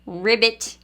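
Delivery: frog sound. Pretend. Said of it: "What do frogs say".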